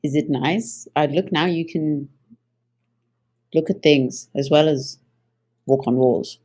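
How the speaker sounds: low, halting, mildly sheepish question. Acted. Character turning to Spider, mildly sheepish. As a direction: offer it haltingly, a touch embarrassed. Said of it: "somewhat sheepishly".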